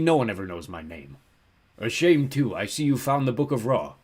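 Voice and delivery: big, mournful ram-god voice; melancholy ram giant. A narrator's reading. Ram guardian apologises to travellers, melancholy giant voice. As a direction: intone it as a regretful giant guardian.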